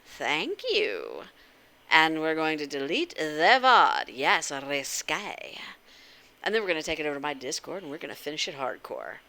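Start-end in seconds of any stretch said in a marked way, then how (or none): 4.1-5.6 drawn out sly; teasing the word slowly; slow sly emphasis. Real, not acted. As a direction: stretch it with a knowing smile.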